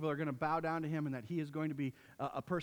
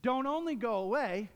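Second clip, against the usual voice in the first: mildly voiced arrogant Pharaoh; haughty Pharaoh; 3 semitones higher than usual. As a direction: sneer at Moses like a proud king. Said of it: "Pharaoh says".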